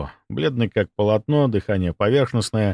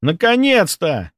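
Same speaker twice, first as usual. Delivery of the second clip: relieved exclamation; 8 semitones higher, 3 dB louder, slower than usual. Acted. Relieved bandit greeting.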